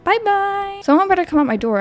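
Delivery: put-on high, sweet little girl asking for daddy; timid child's voice, pitched high. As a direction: play a scared small child at the door. Child says goodbye.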